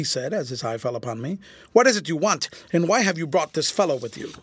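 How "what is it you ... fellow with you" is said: angry. Acted. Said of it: "his temper was at boiling point".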